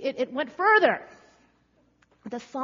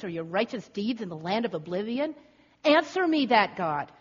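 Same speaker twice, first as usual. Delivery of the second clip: mildly sarcastic questioning of God; bitterly sarcastic. Acted. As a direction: challenge God with rhetorical questions, demanding an answer. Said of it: "a series of bitterly sarcastic questions".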